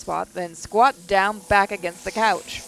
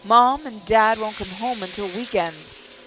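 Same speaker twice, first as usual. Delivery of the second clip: frightened; 3 semitones higher than usual. Acted. Frightened, alone, shaking.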